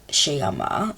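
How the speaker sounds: "Sheyama" with Argentine sh for the ll; Argentine sh sound. Shown as a demonstration. Teacher showing learners the Argentine accent, "Sheyama" with sh. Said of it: "If your goal is to study in Argentina".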